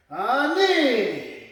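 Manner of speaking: long, drawn-out count; slow count. Shown as a demonstration. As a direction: stretch the word slowly through the move. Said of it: "Okay, slowly".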